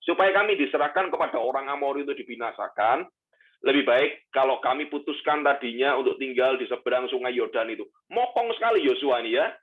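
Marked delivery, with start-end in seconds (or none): 0.0-7.9 measured Bible reading aloud; scripture reading. Acted. Pastor reading Joshua's complaint to God, measured and solemn. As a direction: read the passage to the congregation.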